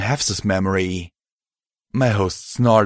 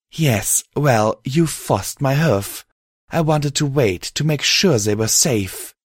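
higher-pitched mare, measured start; alicorn mare explaining; 6 semitones higher than usual. Acted. Mare admitting the host forced her hoof, explaining. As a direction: explain yourself in the mare's raised voice.

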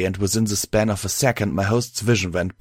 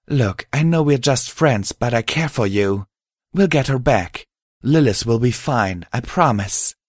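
higher-pitched mare, reassuring; earnest alicorn mare; 4 semitones higher than usual. Acted. Mare promising her friend they'll rescue Lilith, reassuring.

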